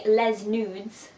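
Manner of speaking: product name in a put-on French accent. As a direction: say it as if French, drawn out. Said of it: "That's a really good French accent".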